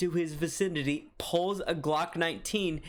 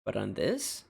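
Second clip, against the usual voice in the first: tipsy. Real, not acted. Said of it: "little tipsy, a little heated".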